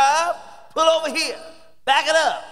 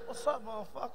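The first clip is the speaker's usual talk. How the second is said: church greeting laughing; 10 dB quieter than usual. Retold or imitated. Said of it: "We say it in church".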